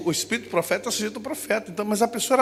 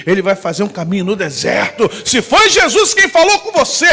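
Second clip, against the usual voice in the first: normal talking voice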